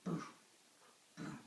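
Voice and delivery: short, spaced-out booms; distant thuds, one at a time; imitated booming footsteps. Storyteller imitates the giant approaching, spaced booms. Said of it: "they heard a sound".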